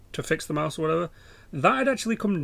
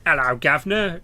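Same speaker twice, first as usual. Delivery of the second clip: mock cockney "hello, governor", louder; stereotype English; 6 dB louder than usual. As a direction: put on a light stereotype English accent. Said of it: "when the English speak, it's all like".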